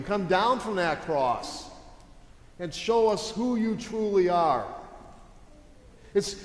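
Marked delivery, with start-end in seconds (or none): 0.0-4.7 mocking challenge. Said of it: "they would mock Jesus".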